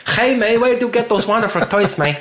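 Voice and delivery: mock Joker voice. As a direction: sneer it out like a cartoon baddie. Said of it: "And then he's like".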